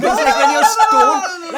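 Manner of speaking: slow words broken by laughter; laughing. Real, not acted. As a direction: laugh through it while talking. Laughing mid-sentence.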